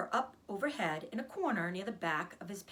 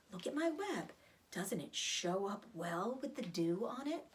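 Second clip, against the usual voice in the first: Charlotte, weak spider; 2 semitones higher than usual. Acted.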